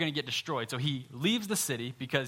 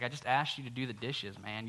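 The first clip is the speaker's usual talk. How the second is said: deadpan God reply; 3 semitones lower, 5 dB quieter than usual. Retold or imitated. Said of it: "And he's like".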